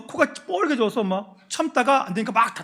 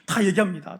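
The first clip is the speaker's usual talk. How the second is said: raised, hurried pleading excuses; pleading sons; 4 semitones higher, 5 dB louder than usual. Retold or imitated. Sons plead with their father, higher and faster. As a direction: talk fast to calm an angry father. Sons defend themselves to Jacob.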